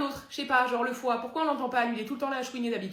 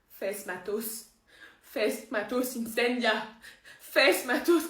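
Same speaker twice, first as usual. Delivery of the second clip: witch casting spell; much slower than usual. Acted. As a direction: intone magic words with mounting strain. Parodie de sorcière qui incante.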